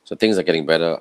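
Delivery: tired, croaky voice. Real, not acted. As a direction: talk through a worn, croaky throat. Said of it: "I sound like a croaky voice".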